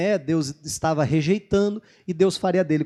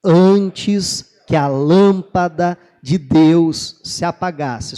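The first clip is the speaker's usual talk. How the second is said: slow, loud group reading aloud; slow unison reading of scripture; slow congregational reading; 7 dB louder, slower than usual. Shown as a demonstration. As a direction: read it together slowly and loudly. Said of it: "Vamos tentar de novo".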